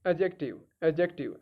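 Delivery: एडजेक्टिव with a silent 'd', said 'ajective'; correct pronunciation. Shown as a demonstration. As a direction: echo the dictionary's एडजेक्टिव, no d before the j. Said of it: "ये एडजेक्टिव है".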